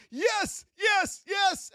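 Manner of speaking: high cheering yes; high hopeful yeses; excited trader. Retold or imitated. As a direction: celebrate the winning trade. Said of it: "you're like".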